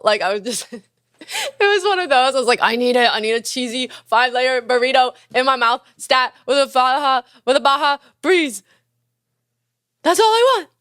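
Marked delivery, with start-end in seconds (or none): 2.6-10.7 high, loud mock drunk demand; drunk craving. Telling friends about her drunk burrito order, pitched way up. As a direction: whine for a burrito like it's urgent.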